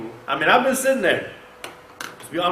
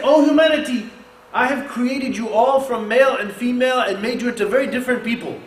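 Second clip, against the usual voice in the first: raised, declaiming voice; proclaiming; 5 semitones higher than usual. Acted. Preacher voicing the Quran's call, raised and declaiming. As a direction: proclaim it like a sermon peak.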